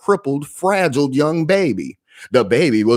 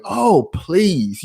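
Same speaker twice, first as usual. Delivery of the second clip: mock plea; 6 semitones higher than usual. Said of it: "and went".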